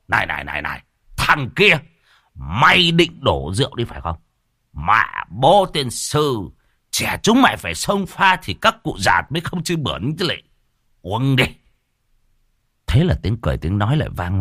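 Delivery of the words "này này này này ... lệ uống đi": put-on tipsy old man scolding a youngster into drinking; rowdy scolding. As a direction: bark at the lad to drink up. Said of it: "cũng hung hăng".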